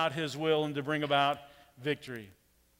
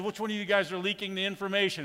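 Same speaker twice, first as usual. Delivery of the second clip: accusing king; 4 semitones higher, faster than usual. Retold or imitated. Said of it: "he points to his staff and says".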